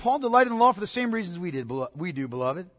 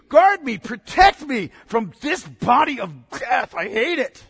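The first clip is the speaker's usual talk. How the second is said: rising, pleading shout for rescue; desperate cry for rescue; 2 semitones higher, 4 dB louder than usual. Acted. Preacher voicing Paul begging for rescue, desperate shout. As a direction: beg to be rescued, voice climbing.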